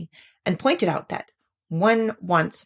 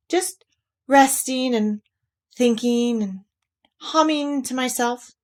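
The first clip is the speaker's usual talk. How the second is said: careless; 5 semitones higher than usual. Acted. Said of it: "said Pooh carelessly".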